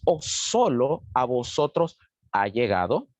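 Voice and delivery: slow, deliberate reading aloud; scripture reading. Acted. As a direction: read the verse out slowly to the congregation. Reads scripture aloud to congregation. (lectura pausada de la Biblia)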